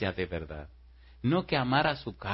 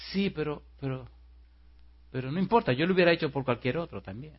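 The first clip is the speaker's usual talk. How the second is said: mildly nervous, higher-pitched hedging; timid, afraid; 4 semitones higher than usual. Retold or imitated. Frightened man admits his sacrifice to the girl, mildly timid. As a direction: stammer a little, then excuse yourself. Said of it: "la mira así con miedo".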